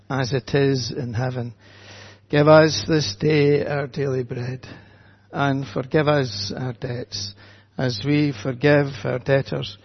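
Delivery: solemn, measured prayer voice. Acted. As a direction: lead the church in prayer, unhurried. Leads congregation prayer.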